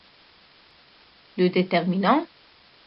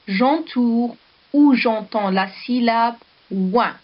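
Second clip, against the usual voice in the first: slow instruction; 2 semitones higher than usual. Shown as a demonstration. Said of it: "teacher repeats the instruction".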